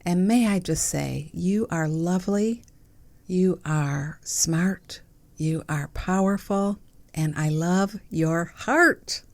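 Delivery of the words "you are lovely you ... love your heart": tender affirmations. Acted. Toasting the listener with affirmations.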